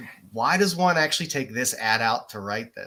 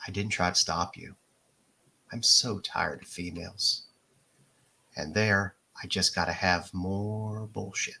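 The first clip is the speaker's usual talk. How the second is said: low, slow sultry read; sultry narrator; 3 semitones lower, slower than usual. Pretend. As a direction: read it like a seductive late-night voice. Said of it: "You gotta do it in your sexy voice".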